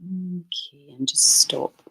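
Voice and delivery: blocked nose voice; congested. Real, not acted. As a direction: speak through a stuffy nose. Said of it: "I'm much more congested".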